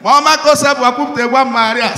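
hammed-up chant starting loud then fading; mock rushed prayer. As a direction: pray while eyeing customers. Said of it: "they start the prayer".

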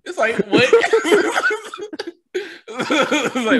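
high, loud cackling laughter over disbelief; laughing. Real, not acted. Mocking a comment-section guilt trip to his co-host, laughing. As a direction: lose it mid-reaction.

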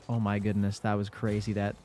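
congested, stuffy-nosed voice; blocked nose. Real, not acted. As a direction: talk through a stuffed-up nose. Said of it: "sorry if I sound a little congested still".

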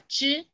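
"ch" said as one single consonant sound; joined CH sound. Shown as a demonstration. Teacher warning pupils against joining C and H, "ch" as one sound. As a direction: say "ch" as one sound, not letter names. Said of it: "la C por un lado y la H por el otro".

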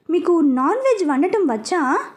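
a touch of surprise in the question; lightly amazed asking; mildly surprised. Acted. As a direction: cook asking the new wife, mildly surprised. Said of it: "అని అడిగాడు ఆశ్చర్యంగా".

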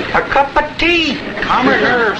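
insistent. Acted. Insisting on tea.

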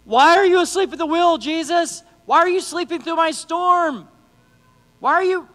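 high, pleading mock protest; acted complaint to Jesus. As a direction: cry out to Jesus in hammed-up reproach. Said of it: "it's, it's like".

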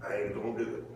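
low, soft, mock-sulky grumble; sullen refusal. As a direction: play the brother digging his heels in, pitch dropped. Voices angry brother refusing to go in.

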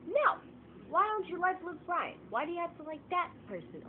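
high, loud shouted protest at fans of the song; mock outraged yelling. Vlogger shouting at song's fans, loud outraged protest. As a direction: yell it like a fed-up kid. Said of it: "I'm just like".

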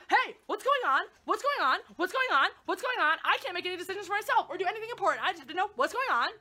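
mock a helpless kid who can't decide anything; mocking clueless child. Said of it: "are you a twelve-year-old child".

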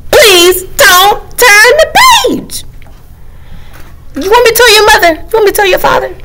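the book character threatening. Acted. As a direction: warn the reader like a tattletale.

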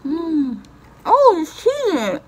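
talking while chewing; mouth full. Real, not acted. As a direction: food held at lips. Seen 1: Food at lips, fingers pulling cheese strand from mouth while speaking.

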